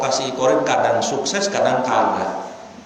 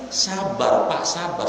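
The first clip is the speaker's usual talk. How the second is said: softer, gentle reassurance, "sabar" eased out; calm soothing; 4 dB quieter, slower than usual. Acted. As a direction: settle the angry man softly. Prophet calms angry hunter.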